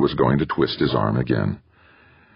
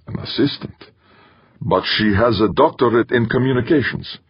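high, breathless shock; stunned, can't believe it; shocked disbelief; 7 semitones higher than usual. Acted. Shocked at wife's situation.

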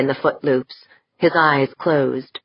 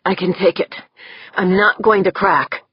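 tight; 5 semitones higher than usual. Acted. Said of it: "Corvus said tightly".

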